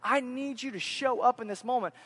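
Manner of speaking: mildly frustrated, urgent plea; Moses, upset. Retold or imitated. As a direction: plead with God with a touch of exasperation. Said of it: "upset and the frustration that's in Moses' voice".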